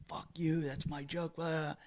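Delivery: soft, high mock protest; half-voiced mocking comeback; imitated argument. Retold drunk comic's argument.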